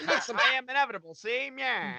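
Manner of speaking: put-on old-timey gangster voice. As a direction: clip it like an old movie mobster. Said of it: "but with old-timey voices".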